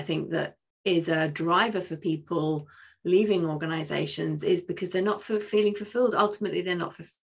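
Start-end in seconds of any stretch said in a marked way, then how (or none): 4.9-7.1 choppy, cutting-out connection; words breaking up on a bad line; buffering stutter. Real, not acted. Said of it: "The internet is cutting".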